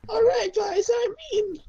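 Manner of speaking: loud put-on voice that cracks. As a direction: announce it in a cartoon voice, cracking. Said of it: "That voice crack".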